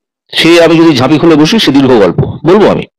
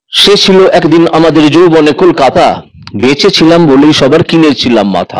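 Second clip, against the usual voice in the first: poem recitation. Acted. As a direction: recite it like a Bengali poet.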